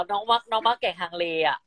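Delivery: Northern Thai interview reply; easy Chiang Mai dialect. Shown as a demonstration. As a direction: answer in kham mueang. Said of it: "พูดเป็นคำเมืองครับ".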